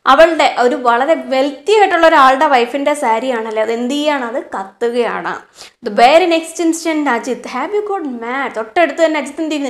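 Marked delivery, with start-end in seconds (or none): 5.9-8.5 slow, deliberate reading of the story. A narrator's reading. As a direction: read each phrase slowly for the class. Teacher reads story aloud. (പതുക്കെയുള്ള കഥ വായന)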